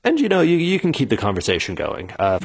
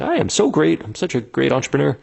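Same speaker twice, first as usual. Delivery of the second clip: high, self-satisfied gloating; smug inner voice; 5 semitones higher than usual. Retold or imitated. Founder gloating to himself after the pitch, smug and high. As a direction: pat yourself on the back, pitched up. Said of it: "you're thinking".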